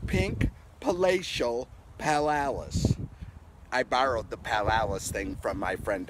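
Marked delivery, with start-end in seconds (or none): 0.1-3.0 slow demo. Shown as a demonstration. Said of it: "Can you say all those words?".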